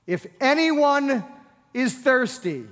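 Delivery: slow, high, ringing proclamation; loud voice. Acted. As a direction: cry it out to the whole crowd. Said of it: "said in a loud voice".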